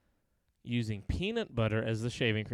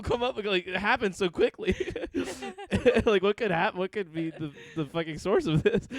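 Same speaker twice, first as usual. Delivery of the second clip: retold panic; 5 semitones higher than usual. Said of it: "I was freaking out for a second 'cause I was like".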